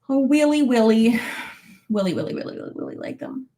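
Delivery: put-on "really" babyishly said as "Willy"; playful baby talk.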